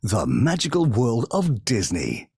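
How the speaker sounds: slow, measured channel ident; Disney Channel announcer. Shown as a demonstration. Former voice of Disney Channel showing his old job, slow announcer read. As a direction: announce it slowly, as a TV trailer voice. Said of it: "it was my voice that you heard go".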